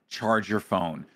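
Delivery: low, measured repeated reminder; retold nagging, kept low and firm. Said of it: "I tell her every day".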